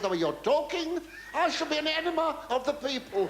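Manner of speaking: high, arch put-down; cheeky retort. Retold or imitated. Retorting to the TV boss with a cheeky pun. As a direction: deliver the pun with mock dignity. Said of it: "I said".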